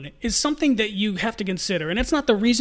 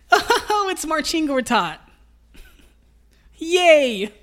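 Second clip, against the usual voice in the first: high, squealing giddy delight; giddy glee; 8 semitones higher, 4 dB louder, slower than usual. Retold or imitated. Guard spotting the slow center, giddy and laughing. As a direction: squeal like a kid spotting an easy mark.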